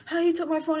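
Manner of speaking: high-pitched mock chewing-out; imitated scolding mom. Mom chewing out her daughters, high and scolding. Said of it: "mom was chewing me and my sister out".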